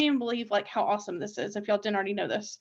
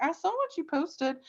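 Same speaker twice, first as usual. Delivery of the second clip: higher, softer creepy-stalker tease; mock creepy; 5 semitones higher, 5 dB quieter than usual. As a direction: lightly imitate a creepy snooper. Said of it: "don't be creepy".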